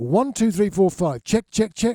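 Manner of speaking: loud, bellowed, shouted voice. Speaker shows the kind of check done on stage, loud bellowing mic check. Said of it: "in a loud voice".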